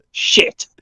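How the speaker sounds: breathy whisper of dismay; hushed panicked swear; whispered curse. Retold or imitated. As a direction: whisper it like you've just been caught. Caught by police, quiet curse.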